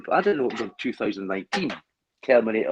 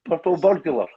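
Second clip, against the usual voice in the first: put-on Scottish accent test; 5 semitones higher, 5 dB louder than usual. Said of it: "taking the mickey out the accent".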